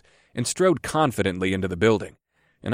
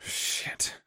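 whispered curse; under the breath; 12 dB quieter than usual. A narrator's reading. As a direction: swear under your breath. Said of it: "I swore under my breath".

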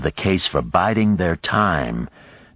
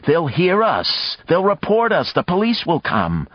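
urgent hissing; 12 semitones higher than usual. Acted. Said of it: "People were hissing".

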